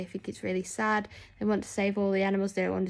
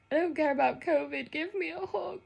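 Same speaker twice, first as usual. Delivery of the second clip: put-on higher, needy childlike plea; pleading for a hug; 8 semitones higher than usual. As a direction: beg for a hug like a small child. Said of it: "I was like".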